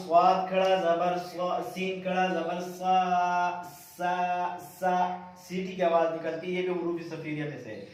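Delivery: slow sing-song syllable chant; qaida recitation. Shown as a demonstration. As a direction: recite each syllable evenly for pupils. Chanting drill.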